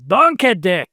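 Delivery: quick Scottish accent, Donkeddick run together like donkey. Shown as a demonstration. Host reading a patron name to his cohost, in a Scottish accent. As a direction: roll it out Scottish so Don Keddick sounds like donkey dick. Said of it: "if you say it in a Scottish accent".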